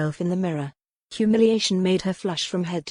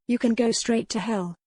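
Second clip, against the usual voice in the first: spat out; 4 semitones higher than usual. Acted. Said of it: "she spat".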